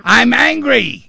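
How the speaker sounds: loud, high, drawn-out yell; demonstrative shout. Shown as a demonstration. Host shouting along to free the caller's anger, full shout. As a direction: belt it out long and high. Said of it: "I'm gonna be shouting too".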